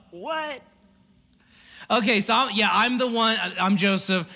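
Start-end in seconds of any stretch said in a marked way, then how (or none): 0.1-0.6 stunned what. Real, not acted. Reaction after a laugh.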